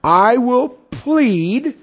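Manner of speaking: resolute vow. Acted. Preacher voicing the believer's vow to pray for the deceived, slow and loud. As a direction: stretch each I will like a solemn vow. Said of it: "The same thing the Apostle Paul did".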